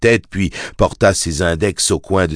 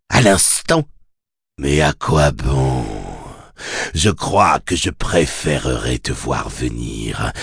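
infernal voice. Acted. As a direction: gloat like a cruel fiend savouring fear. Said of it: "lança la voix infernale".

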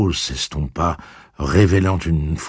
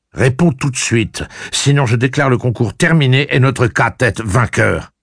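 dry confident tone; 8 semitones higher, 6 dB louder than usual. A narrator's reading. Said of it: "ton sec et plein de confiance en soi".

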